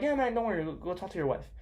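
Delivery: mock easygoing reassurance, gently dropping away; acted nice guy. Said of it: "than if you're nice".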